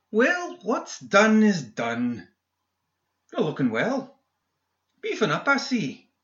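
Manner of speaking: high, snide villain; sneering villain voice. A narrator's reading. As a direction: taunt him with false cheer. McMorning voiced higher.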